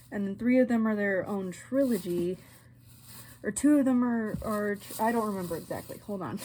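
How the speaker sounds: talking through a retainer with a slight lisp; barely opening the mouth, retainer in; wearing a retainer. Real, not acted. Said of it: "I'm not mumbling too badly or lisping too badly".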